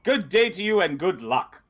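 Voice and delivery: high, sing-song farewell from a hawker; overly emphatic vendor. Acted. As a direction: send the customer off with swooping emphasis. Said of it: "overly, uh, emphatic".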